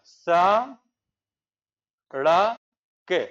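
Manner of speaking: सा ... ड़ ... के, each syllable split off with pauses; teacher spelling out सड़क sound by sound. Shown as a demonstration. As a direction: break सड़क into सा, ड़, के slowly. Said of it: "कहते थे कि सड़क".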